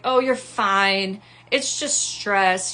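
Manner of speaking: slow, brushing-off tone; a hint of condescending calm; dismissive doctor. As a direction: wave her worries away.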